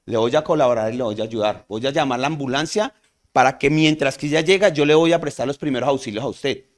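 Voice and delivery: assured first-aider taking charge; confident reassurance. Shown as a demonstration. First-aider to the conscious patient, confident and reassuring. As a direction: offer help with steady confidence. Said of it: "llego con seguridad y le digo".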